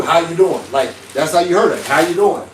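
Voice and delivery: rough, irritated greeting. Shown as a demonstration. Imagining a texter as gruff, irritated. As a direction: say it curtly, a touch irritated. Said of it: "kind of rough and rugged or kind of irritated".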